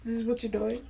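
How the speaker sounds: fast whisper broken by a laugh; real whispered aside; exasperated whisper. Real, not acted. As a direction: whisper it half-laughing in frustration.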